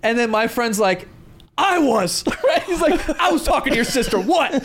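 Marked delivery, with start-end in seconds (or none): 1.6-4.5 mock screaming. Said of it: "Like, just screaming".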